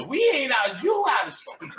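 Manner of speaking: high, loud retort; mock argument shout; shouting back. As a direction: yell the correction at her. Retold argument over groceries.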